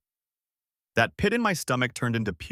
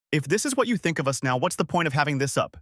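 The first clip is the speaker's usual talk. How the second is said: yelling; 4 semitones higher, faster than usual. Acted. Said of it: "she yelled".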